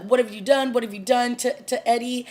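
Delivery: half-strength acted outcry; mock scream. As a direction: imitate screaming at someone without a full yell. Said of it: "Joe's screaming".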